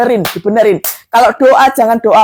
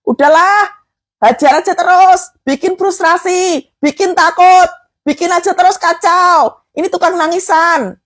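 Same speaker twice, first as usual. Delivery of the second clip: raised, steady taunting chant; mock the crybabies as the devil, pitched up; gloating devil; 7 semitones higher than usual. Preacher voicing the devil mocking crying believers, gloating taunt. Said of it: "Iblisnya tertawa".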